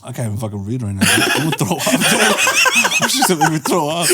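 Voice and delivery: talking through helpless laughter; queasy from laughing too much; laughing hard. Real, not acted. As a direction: try to speak while cracking up.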